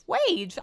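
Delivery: Wage with a clear W, not Rage. Real, not acted. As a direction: correct herself: Wage, slip for Rage. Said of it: "I just said Wage".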